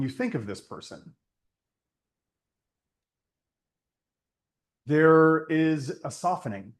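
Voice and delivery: unhurried meditation voice with long pauses; guided meditation. Acted. Teacher leads listeners to think of someone trusted, guided meditation. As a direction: guide them inward, leaving space after each phrase. Leads a closed-eye reflection.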